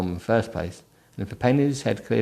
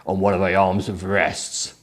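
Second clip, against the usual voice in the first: 1 deep masculine voice. Acted. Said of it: "I need to do these in the proper voices".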